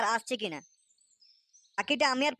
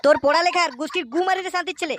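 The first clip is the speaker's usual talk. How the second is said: much louder, higher angry shouting at the son; furious father yelling; 3 semitones higher, 8 dB louder than usual. Acted. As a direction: roar for the boy to come out. (রেগে আগুন বাবার চিৎকার)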